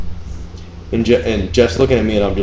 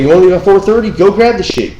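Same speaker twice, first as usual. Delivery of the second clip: retold angry order; 10 semitones higher, 5 dB louder than usual. Retold telling-off of coworker.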